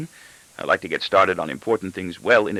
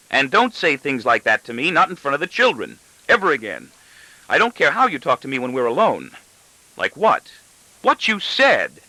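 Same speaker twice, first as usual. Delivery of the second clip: angry wife; 6 semitones higher than usual. A narrator's reading. Wife scolding in a quarrel.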